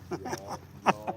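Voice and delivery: Southern y'all. Pretend. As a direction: ham up the Southern twang. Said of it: "southern accent".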